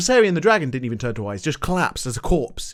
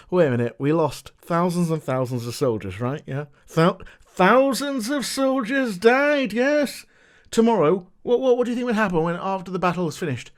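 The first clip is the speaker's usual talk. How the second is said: mock patient explainer. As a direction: talk down to them like a patient teacher, barely changing your voice. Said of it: "they go".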